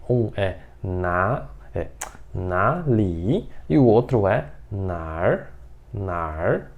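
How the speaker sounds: na li and nar said slowly side by side; two variants. Shown as a demonstration. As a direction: spell out both forms slowly. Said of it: "duas formas de você falar".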